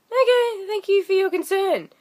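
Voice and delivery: high, mock-grateful sarcasm; sarcastic thanks. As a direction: thank them with biting sarcasm. Sarcastic reply to unhelpful passengers.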